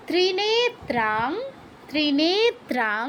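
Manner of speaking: ত্রিনেত্রাং with long নে and ত্রা; long vowels. Shown as a demonstration. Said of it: "নেতে ত্রাতে দীর্ঘ".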